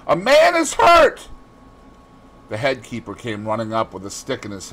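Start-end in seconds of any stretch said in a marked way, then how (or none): 0.1-1.3 high, loud alarm call; urgent, raised-pitch shout; top-of-voice shout. A narrator's reading. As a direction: call for help across a distance. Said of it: "called out at the top of his voice".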